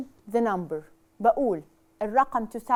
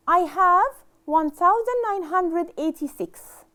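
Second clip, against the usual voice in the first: slow model reading; 4 semitones higher, 4 dB louder than usual. Shown as a demonstration. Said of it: "If I want to read it".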